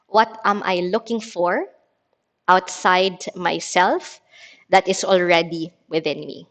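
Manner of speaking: measured, spaced-out reading of a guiding question; meditative card reading. Acted. Teacher reading a card to a meditation class, measured and meditative. Reads guide question again.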